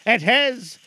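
high, slow, loud spectral lament; slow mournful ghost. Acted. Marley's ghost mourning to Scrooge. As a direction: stretch it out like a suffering spirit.

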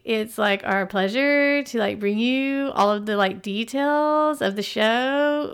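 put-on ditzy like-filled valley girl voice; valley girl mock. Podcast host mocking a ditzy intro, valley girl voice. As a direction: play up every like, airy and bubbly.

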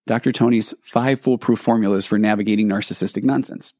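barker announcing the grand title; carnival barker. Pretend. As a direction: roll the title out like a showman. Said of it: "as if it were a carnival barker".

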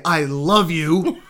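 loud, slow, pointed I love you that means the opposite; I love you with the wrong tone. Shown as a demonstration. Husband showing his wife how tone undercuts words, said loud and slow. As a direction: stretch it out so the tone betrays the words. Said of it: "the tone is saying something completely and totally different".

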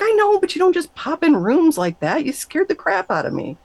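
high, flustered scolding; indignant fright. Retold or imitated. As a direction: tell him off, still rattled. Scolding God for scaring her.

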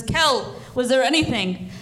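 put-on a mild shout for the boy; calling out. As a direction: yell out to his son. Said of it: "he yells out".

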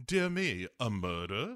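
lightly put-on British exclamation; mock British. Mock British alternative title.

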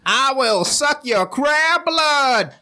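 high, slow monster voice; vampire crab. Acted. Krabina threatening her victims, slow monster voice.

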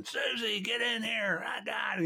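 high-pitched mock panicked call for help; hammed-up panicky yell for Susie. A flustered tech calling for help, high mock panic. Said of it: "they start screaming".

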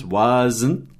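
"wasn't" alongado, was-zn; wasn't em duas sílabas. Shown as a demonstration. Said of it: "Duas sílabas". ("wasn't" didático, com zn final)

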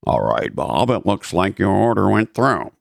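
flat, bored broker monotone. Retold or imitated. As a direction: drone it like a dull broker. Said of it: "in a monotone voice".

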